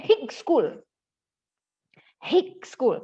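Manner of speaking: "Hick school" with short i and hard k; wrong pronunciation. Shown as a demonstration. Teacher mimicking another misreading of high, wrong pronunciation. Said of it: "tanpa H".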